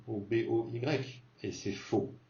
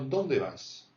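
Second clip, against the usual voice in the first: dónde raised into the highs; high pitch on dónde; 2 semitones higher than usual. Shown as a demonstration. Teacher showing the question tune, dónde pitched up. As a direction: lift dónde, let vas drop. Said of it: "on monte dans les aigus pour dire".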